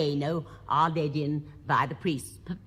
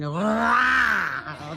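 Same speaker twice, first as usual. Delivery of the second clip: lion roar; 2 semitones higher, 6 dB louder than usual. Pretend. Lions turn up.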